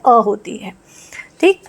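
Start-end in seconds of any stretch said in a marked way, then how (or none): 0.1-0.1 अ as a short open vowel, not यू; short a sound. Shown as a demonstration. Teacher corrects how the u in umbrella sounds. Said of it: "यू की sound यू नहीं होती है".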